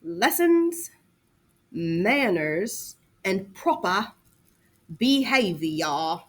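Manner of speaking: slow dictation; dictation, slowly spaced. Shown as a demonstration. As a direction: stress on Lessons, manners, proper behavior with pauses. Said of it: "Charles Perrault was all about lessons".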